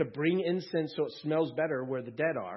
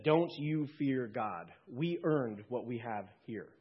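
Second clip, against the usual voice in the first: rebuke. Acted. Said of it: "rebuked him and said".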